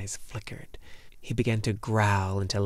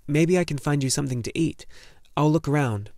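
put-on higher-pitched young boy voice; lightly voiced eager boy; helpful boy hero; 5 semitones higher, 4 dB louder than usual. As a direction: offer it gently but brightly, as a boy. Boy character in a story.

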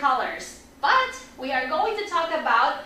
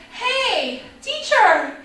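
higher-pitched call for attention; student calling teacher; 6 semitones higher, slower than usual. Acted. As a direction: call out to the teacher from your seat. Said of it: "you can raise your hand and say".

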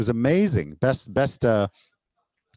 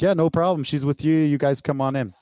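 higher-pitched, easygoing officer voice; imitating a relaxed, friendly border agent, pitched up; friendly customs officer; 6 semitones higher than usual. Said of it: "and he's like".

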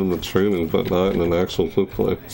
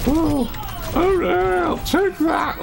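much higher, yelled in the heat of a fight; frantic laughing shout; much slower than usual. Real, not acted. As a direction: shout while laughing at the chaos. Panicked fight moment.

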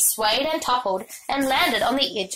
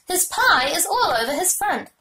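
put-on raised, indignant child's voice; shouting; 6 semitones higher than usual. A narrator's reading. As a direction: call it out, upset. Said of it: "shouted Fern".

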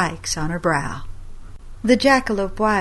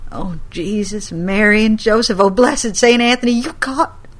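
a grandmother calling on saints in shock; horrified grandma; 2 semitones higher than usual. Acted.

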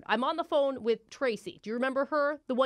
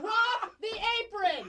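higher and slow, drawn-out command; slow, higher repeat of the order; stern slow order; 10 semitones higher, slower than usual. Acted. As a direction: drag out each word as a cold order.

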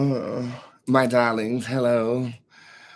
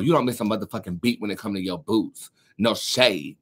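ordinary delivery

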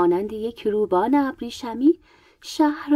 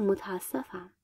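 low-key, much softer apology; 3 semitones lower, 11 dB quieter, slower than usual. A narrator's reading. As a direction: drop the volume to say sorry. Apology after hurting her. (عذرخواهی آرام و کوتاه)

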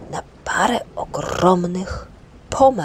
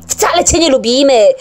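loud, higher yell; shout; 8 semitones higher, 8 dB louder than usual. Acted. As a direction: shout him down. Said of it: "krzyknął Ryjek".

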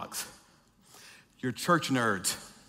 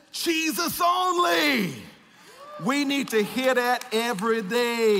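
higher and louder call and answer; rousing preaching; 6 semitones higher, 3 dB louder than usual. Acted. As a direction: whip up the church, building. Preaching build-up.

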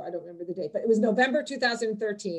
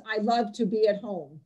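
snarky. Pretend. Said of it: "it's a little snarky".

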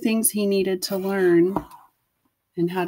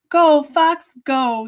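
cheering mother fox; 8 semitones higher, 7 dB louder, much slower than usual. Acted. Mother fox sends him off.

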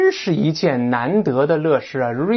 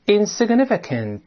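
read aloud clearly; 5 semitones higher than usual. Shown as a demonstration. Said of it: "也大声来一遍".

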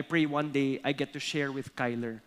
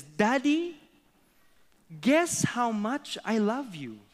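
put-on higher-pitched, eager child rabbit voice; little rabbit; 7 semitones higher than usual. Little rabbit asking his papa, childlike and higher. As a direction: play a little rabbit calling to daddy. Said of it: "reenact it with some acting".

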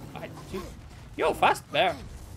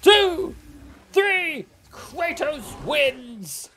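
high, loud play-by-play and count; mock wrestling commentator; 9 semitones higher, 9 dB louder, much slower than usual. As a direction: call the pin like a hyped ring announcer.

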